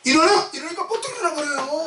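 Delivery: high, exclaiming preacher voice; forceful pulpit delivery; impassioned preaching. Real, not acted. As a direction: cry out the miracle to the congregation.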